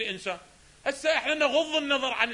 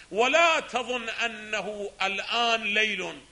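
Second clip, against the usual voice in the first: drawn-out, deliberate quote; ولا تظن read slow and heavy; slow emphatic reading; 4 dB louder, slower than usual. Shown as a demonstration. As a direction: read it slowly, weighing each word. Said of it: "teacher reads the key phrase".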